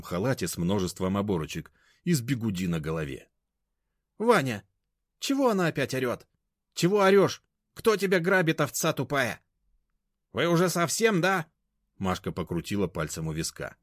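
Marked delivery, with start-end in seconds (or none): 4.2-9.4 put-on high, loud, rude old woman; contemptuous high-pitched telling-off; scornful scolding. A narrator's reading. Grandmother scolding Mashka. 10.3-11.5 high, loud, jeering; high-pitched sneer; mocking scorn. A narrator's reading. Mashka mocking grandma.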